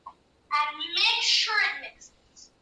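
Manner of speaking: very slow, stretched-out emphasis; deliberate, drawn-out reminder; drawn-out instruction. Acted. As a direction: stretch each word out slowly.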